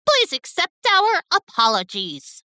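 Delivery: high-pitched, contrite plea; remorseful apology. A narrator's reading. Gabby apologising to Teddy, remorseful. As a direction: apologise as if truly sorry. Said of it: "feeling remorseful about her previous words".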